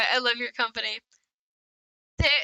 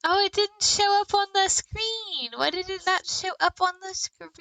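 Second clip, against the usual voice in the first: surprised; 7 semitones higher than usual. Real, not acted. Stream alert fails to show.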